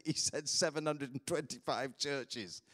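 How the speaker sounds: slow, mildly incredulous repeat; retold disbelief. Pastor checks the number with the translator, retold disbelief. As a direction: spell out the number slowly as if unbelievable.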